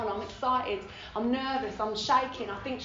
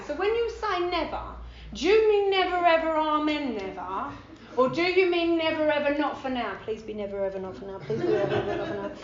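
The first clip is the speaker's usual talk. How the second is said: pleading; 2 semitones higher, 4 dB louder than usual. Retold or imitated. Pleading about never ever.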